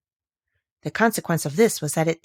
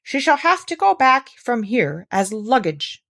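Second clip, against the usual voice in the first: beadle; 5 semitones higher, 4 dB louder, slower than usual. Acted. Beadle speaks.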